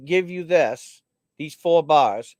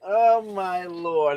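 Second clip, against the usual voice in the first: laughing; much slower than usual. Real, not acted. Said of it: "I got issues".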